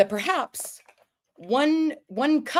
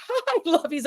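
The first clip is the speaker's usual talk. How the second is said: high-pitched sweet hello; mock-sweet, high little greeting; 10 semitones higher than usual. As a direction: greet them in a put-on high voice. Cheery greeting to the girls.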